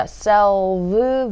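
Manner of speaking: "self" drawn out into a long buzzing V; stressed V sound. Shown as a demonstration. Teacher showing the V sound, stressed V. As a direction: hold a voiced V at the end of "self". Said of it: "V 발음".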